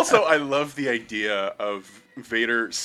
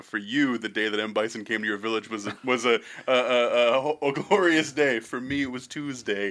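villain quote; 3 dB quieter than usual. Retold or imitated. Quoting Bison menacingly.

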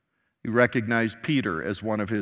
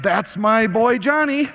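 proud parent; 9 semitones higher, 8 dB louder, slower than usual. Retold or imitated. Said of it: "you're like".

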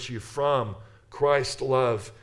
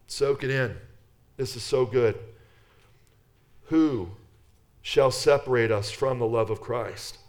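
raised, ringing reading of the passage; scripture reading. Acted. Pastor reading Romans to anxious listeners, ringing proclamation. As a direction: proclaim the verses to the congregation.

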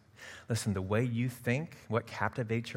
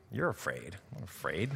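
laughing retort; 4 dB quieter than usual. Retold or imitated.

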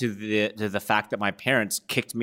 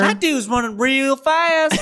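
goofy hick voice; 6 dB louder, slower than usual. Pretend. Goofy Terminator bit continues.

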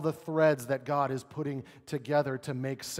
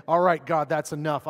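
fed-up quit; 8 dB louder than usual. Retold or imitated. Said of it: "Instead of saying".

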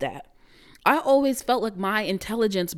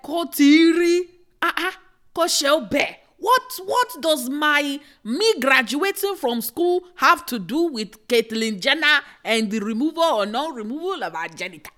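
high, loud, slowed sputter of disbelief; disbelieving rant about the graduation call; flabbergasted sputter; 6 semitones higher, 4 dB louder than usual. Real, not acted. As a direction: stammer in outraged shock. Outraged gibberish, disbelief.

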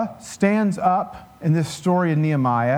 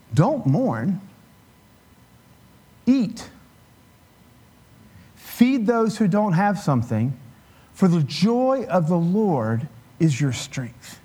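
priest's command; slower than usual. Retold or imitated. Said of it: "The priest said".

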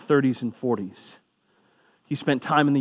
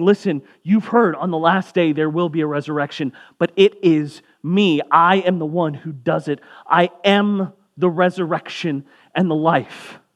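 raised, forceful preaching with weight on "me" and "am"; emphatic declaration; 3 semitones higher, 5 dB louder than usual. Acted. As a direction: proclaim it, drawing out the key words. Preacher voices Jesus's emphatic declaration.

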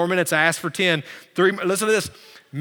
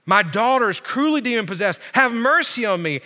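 mildly raised pleading; crying out; 4 semitones higher than usual. Retold or imitated. Mother begs Jesus for her possessed daughter, crying out. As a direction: beg for mercy in a preacher's retelling. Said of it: "began to cry out, saying".

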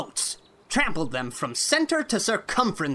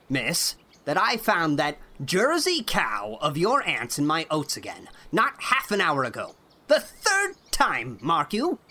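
put-on angry old man; 4 dB louder than usual. A narrator's reading. Irate farmer scolding Anne over the cow, furious. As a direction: rage at the girl, pounding each word.

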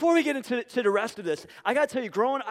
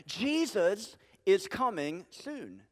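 slow and softer, sincere; slow, soft statement; 4 dB quieter, much slower than usual. Real, not acted. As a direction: state it slowly, letting it land. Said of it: "plain statement after the skit".

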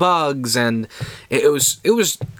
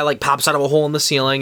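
usual speaking voice

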